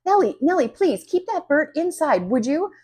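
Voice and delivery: lightly voiced stern neighbor; a hint of a stern neighbor lady. A narrator's reading. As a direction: scold the girl sternly. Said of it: "she says in a stern voice".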